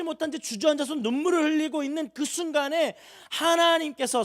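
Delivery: impassioned pulpit build, slowing at the end; full-force preaching. Acted. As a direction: preach it out with everything you have.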